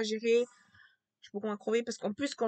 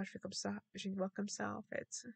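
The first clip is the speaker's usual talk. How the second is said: soft demo of a failing voice; losing voice; 7 dB quieter than usual. Shown as a demonstration. Speaker showing how their voice goes, losing voice. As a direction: let the voice fade out quietly. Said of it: "quand je perds ma voix".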